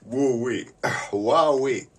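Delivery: high, loud woo-wee of amazement; amazed whoop. Acted. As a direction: let out an impressed whoop. Exclaiming in awe.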